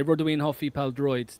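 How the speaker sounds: "Rydw i'n hoffi pêl-droed" in native Welsh sounds, falling at the end; Welsh phrase spoken. Shown as a demonstration. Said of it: "you would say".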